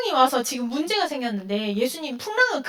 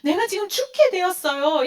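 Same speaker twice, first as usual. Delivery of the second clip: higher, anxious pleading; pleading to Jesus; 5 semitones higher than usual. Retold or imitated. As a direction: cry out to Jesus about your trouble, mock distress. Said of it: "우리는 뭐라 그래요?".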